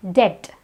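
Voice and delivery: debt said with no B; debt with a bare T ending; silent B. Shown as a demonstration. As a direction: say debt as det. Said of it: "the B is silent".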